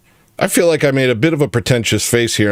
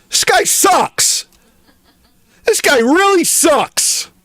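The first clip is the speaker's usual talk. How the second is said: mock squeaky voice; slower than usual. Mocking Jim Bob for spoiling.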